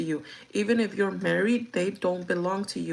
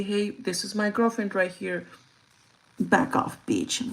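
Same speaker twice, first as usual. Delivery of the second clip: rude way; slower than usual. Shown as a demonstration. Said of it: "But not like that".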